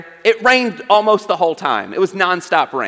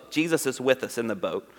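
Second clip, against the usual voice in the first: "Jesus is with us in the boat" said again much softer and lower; soft repeat; 5 semitones lower, 8 dB quieter than usual. Shown as a demonstration. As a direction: let the repeat sink in quietly. Repeats line, second softer.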